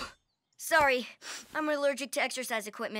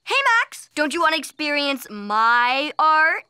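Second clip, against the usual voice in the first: calling out; 8 dB louder than usual. Acted.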